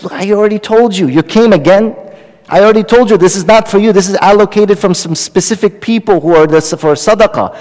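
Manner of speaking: mildly fed up, insisting on the refusal; exasperated refusal. Retold or imitated. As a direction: firmly turn away a repeat beggar. Guard scolds returning beggar.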